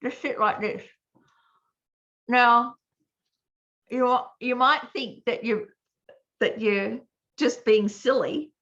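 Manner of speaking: talking with a pen between teeth. Real, not acted. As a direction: speak around a pen held in the mouth. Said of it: "You put it in your mouth, like this".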